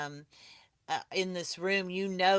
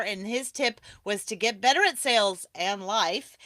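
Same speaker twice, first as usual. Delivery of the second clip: ordinary talk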